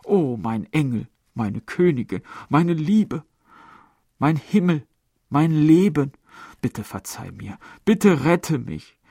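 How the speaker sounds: a hint of a desperate suitor; pleading man's voice. A narrator's reading. Lover begging his beloved, lightly voiced pleading. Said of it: "sagte die Stimme des Mannes".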